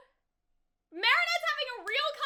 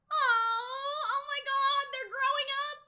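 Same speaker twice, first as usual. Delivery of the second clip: mock sobbing; 3 semitones higher, slower than usual. Real, not acted. Fan reacting to cartoon growing up.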